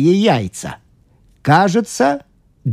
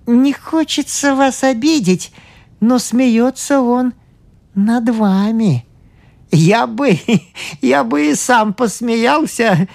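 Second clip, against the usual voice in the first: high, slow, laughing priest; amused priest; 10 semitones higher, slower than usual. Acted. Priest tells the doctor with a laugh, high and slow. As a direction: tease gently through a chuckle.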